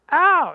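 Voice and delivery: high, loud comic ow; mock yelp of pain. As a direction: yelp like you've been hit. Pharaoh hit by plague.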